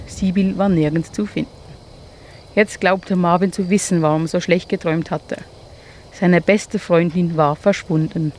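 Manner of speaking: gentle storyteller reading aloud; children's story narration. A narrator's reading. Narrator reading to children by the fire, gentle. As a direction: tell it as if around a campfire.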